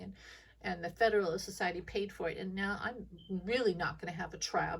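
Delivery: a light, petulant put-on voice of a defiant judge; lightly voiced defiant judge, arms crossed; mocking judge voice. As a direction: sulk and defy like a spoiled official. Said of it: "I hate that voice".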